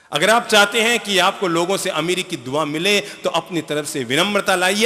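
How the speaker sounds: normal talking voice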